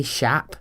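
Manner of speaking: SHOP said as "shap", with an open a; imitated Northern Irish "shap" vowel; Belfast pronunciation. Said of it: "someone from Belfast says the word shop".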